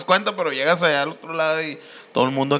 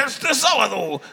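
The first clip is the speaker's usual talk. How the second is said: lightly hammed-up announcer, higher pitch; mock event announcer; 4 semitones higher, slower than usual. Recalling a radio event plug for friends, mock announcer. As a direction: announce the show with a drawn-out flourish.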